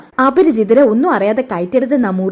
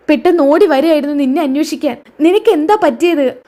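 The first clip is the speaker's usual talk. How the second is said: shocked distressed cry; 4 semitones higher than usual. Acted. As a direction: cry out in alarm at her friend's state. Friend sees bedridden Anagha.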